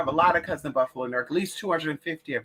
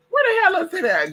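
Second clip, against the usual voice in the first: frustrated outburst; 13 semitones higher, 5 dB louder than usual. Real, not acted. Frustrated searching for item.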